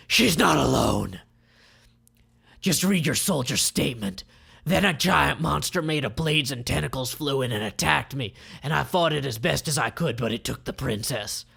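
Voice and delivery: loud villain reading a statement; Grosvenor's voice. Acted. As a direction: press the point hard.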